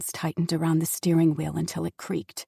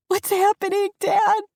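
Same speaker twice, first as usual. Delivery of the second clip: much higher, loud frightened voice; scared plea; 12 semitones higher, 5 dB louder than usual. Acted. Frightened daughter asking father, scared and high. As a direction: ask it in rising panic. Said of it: "She was so scared".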